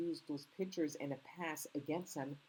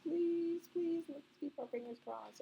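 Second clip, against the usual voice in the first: pleading hope; 13 semitones higher than usual. Real, not acted. Hoping a clip will play.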